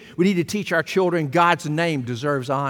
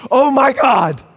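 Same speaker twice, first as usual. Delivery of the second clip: high, loud mock "Oh my God!"; shrill put-on gasp of "Oh my God!"; mock exclamation; 8 semitones higher, 6 dB louder than usual. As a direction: ham up the careless exclamation. Mocking people's exclamation.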